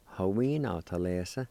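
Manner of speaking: "Ha, we, na, ta, le, sa." run together without the "ni" syllable; joined-up variant with the i dropped; shortened pronunciation. Shown as a demonstration. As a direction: say "na" in place of "ni, ah". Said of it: "with the N being silent".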